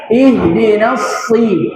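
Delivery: slow ihdinas si with a held, heavy s; thick sad. Shown as a demonstration. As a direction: press the emphatic s in si. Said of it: "Jadi dia tebal".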